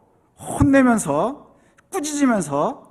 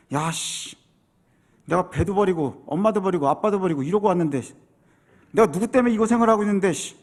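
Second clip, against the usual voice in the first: sulky grumbling; 2 semitones lower than usual. Acted. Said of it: "뭐 이런 생각이 들지 않았습니까".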